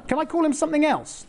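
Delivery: put-on high, laughing little-girl plea; childish pleading. Little Mary wheedling the angel for another name. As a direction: wheedle like a cheeky six-year-old.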